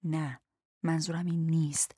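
quiet, dropping to a whisper; hushed, trailing into a whisper; softly. A narrator's reading. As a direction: say it gently, almost under the breath. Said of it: "جودا آهسته گفت".

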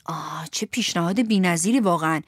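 mocking, whispered sarcasm; sarcastic whisper. The boy mocks Pinocchio's offer in a sarcastic whisper. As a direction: hush it out, dripping irony.

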